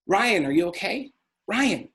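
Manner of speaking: father begging his son to answer; calling out. Retold or imitated.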